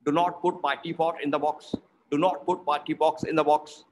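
"not", "pot" and "box" with short rounded O; "box" with an open, rounded British O; short O practice. Shown as a demonstration. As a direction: keep the vowel brief in "not", "pot", "box". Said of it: "second one is O sound".

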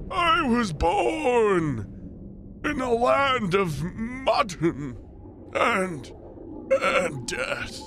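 put-on very slow, solemn old monk; a hint of a grave elder; old man voice. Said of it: "a lot of old man voice".

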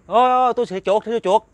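high, loud urgent calling out; retold warning shout. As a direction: act out yelling a frantic warning to someone in the distance. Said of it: "Ổng la kêu bằng muốn khàn cổ luôn".

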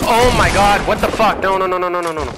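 high, loud despairing no's; raging gamer. Real, not acted. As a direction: scream in disbelief at losing. Losing the fight, raging.

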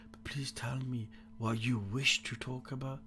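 soft unvoiced whisper. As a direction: breathe the words in a whisper. Voicing character line in whisper.

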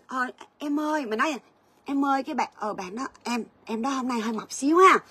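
put-on tactful older sister; gentle tone. Shown as a demonstration. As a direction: ease it in gently so nobody is hurt. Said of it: "Nó khác mấy chị".

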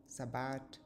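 Sabbat with a hard final t, no th; saying Sabbat. Shown as a demonstration. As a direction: give the variant "Sabbat", ending on a crisp t. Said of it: "several variations in spelling and pronunciation".

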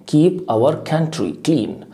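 very slow, every word spaced out; slow classroom repetition; slow drill. Shown as a demonstration. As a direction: spell it out slowly for the class. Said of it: "teacher drilling the phrase".

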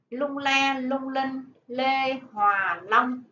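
poem reading. Acted. Teacher reads poem aloud.

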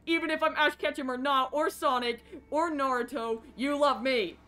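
lightly pushed anime-hero voice; Ash Ketchum. Acted. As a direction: declare it like a cartoon hero. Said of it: "do the Ash Ketchum voice".

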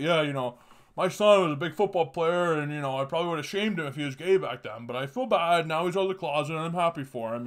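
a hint of a loud, hearty American dad; mild mock of a proud football dad; fat American dad. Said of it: "his dad shows up and he's like".

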